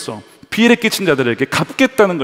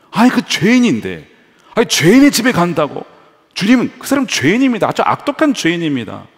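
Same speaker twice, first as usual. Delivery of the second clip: loud, high grumbling outrage at a sinner; indignant crowd; 6 semitones higher, 5 dB louder than usual. Retold or imitated. Grumbling crowd scorning Jesus's choice, loud and indignant. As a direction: sneer at the sinner's house.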